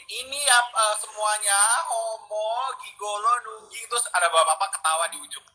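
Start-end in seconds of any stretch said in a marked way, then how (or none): 0.0-3.9 high-pitched yell without the volume; retold mock yell. Retelling what was yelled at everyone, high mock yell. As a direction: call out insults in a raised, high voice. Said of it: "aku teriakin".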